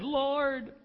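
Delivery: mock-bewildered bedtime prayer; a parent asking God where kids learned it; exasperated prayer. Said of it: "praying by my bed".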